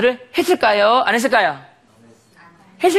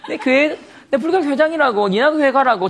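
indignant rebuff; 4 semitones higher than usual. Retold or imitated. Retold indignant rebuff to friend.

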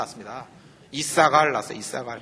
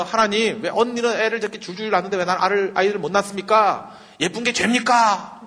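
whiny mock prayer; 4 semitones higher than usual. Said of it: "하나님께 기도해야 될 거 아니에요".

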